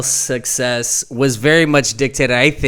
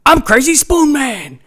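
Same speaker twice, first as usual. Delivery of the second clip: goofy Sandler voice; 12 semitones higher than usual. Retold or imitated. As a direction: squeak it out like a goofball. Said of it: "He'd go on there every Halloween and be like".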